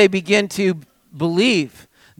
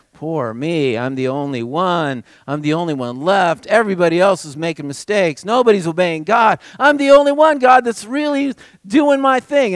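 self-pitying whine; 6 dB louder than usual. Pretend. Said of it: "when we get in this despair".

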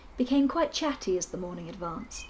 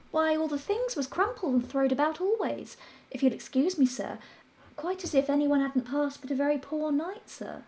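a deferential maid, pitched up; maid's voice; 6 semitones higher than usual. Acted.

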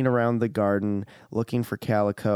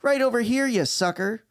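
creature voice; 13 semitones higher than usual. Acted. Calico answers from the bushes.

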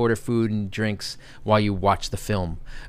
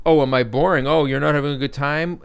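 higher-pitched offended wife, imitated; taking offense; 4 semitones higher, 5 dB louder than usual. Wife to her yawning husband at the bar, mock offended. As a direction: mimic a wife who feels slighted. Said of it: "takes offense to it".

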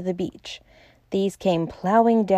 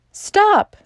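sharp high exclamation; sudden cry; 13 semitones higher, 4 dB louder than usual. A narrator's reading. Bull interrupting the professor, a sudden cry. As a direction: cut in with an urgent high cry. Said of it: "cried Bull suddenly".

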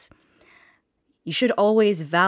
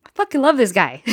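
put-on higher and louder, a gushing drunken declaration; gushing outburst; 7 semitones higher, 7 dB louder, faster than usual. Drunk girlfriend suddenly gushing about her boyfriend, loud. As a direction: burst out with tipsy adoration. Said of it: "I was like".

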